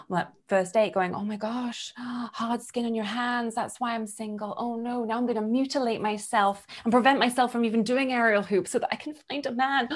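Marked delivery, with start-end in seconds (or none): 1.1-9.9 softer, gasping mock horror; mock panic. On a first date, mock-panicking about hard skin. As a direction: gasp it out, hammed-up dismay.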